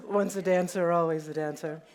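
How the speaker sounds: laughing. Real, not acted. Laughs after showing off jacket.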